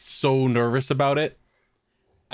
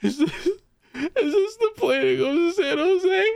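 panting. Retold or imitated. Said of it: "I'm, like, panting".

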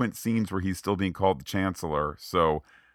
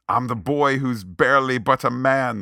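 put-on boyish whine; 5 semitones higher, 5 dB louder than usual. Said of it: "you know, not".

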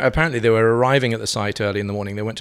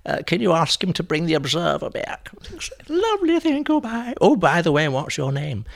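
Jenny Fulborough voice; 10 semitones higher than usual. Retold or imitated. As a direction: trill like a dotty dame after a few sherries. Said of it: "Jenny Fulborough started phoning".

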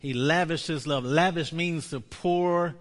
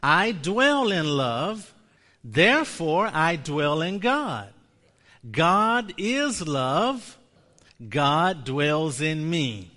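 slow, louder, word by word; a slow call-and-response confession; slow proclaimed confession; 2 semitones higher, 5 dB louder, slower than usual. Shown as a demonstration. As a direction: proclaim it slowly for the room to repeat. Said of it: "Say this one with me".

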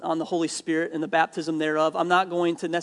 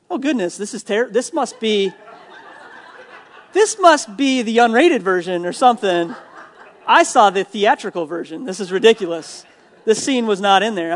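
mock embarrassed, laughing through the words; half-laughing, caught off guard by a racy scene; flustered laughing; 2 semitones higher, 5 dB louder than usual. Retelling watching a movie beside his parents, flustered and laughing.

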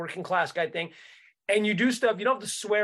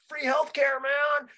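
imitating a Bernie bro; 8 semitones higher, slower than usual. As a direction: hype it up like a fired-up bro. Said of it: "the Bernie bros who are just like".

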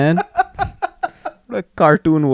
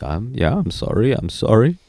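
mumbled apology; 4 dB quieter than usual. Retold or imitated. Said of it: "the apologies".

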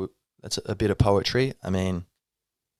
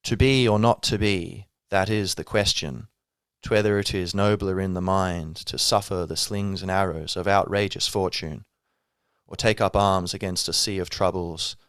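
recital. Acted. Recites Hamlet from memory.

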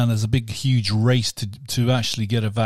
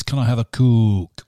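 put-on 'Coke' said as 'cook' in a slow Hull accent; 4 dB louder than usual. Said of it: "If you actually go to Hull".

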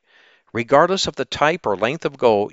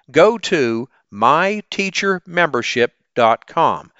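slow spelled-out URL; slower than usual. Shown as a demonstration. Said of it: "That's my teacher membership dot com".

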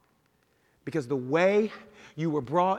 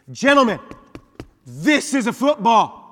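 coach declaration; 6 semitones higher, 12 dB louder than usual. Retold or imitated. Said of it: "quoting famous coach line".

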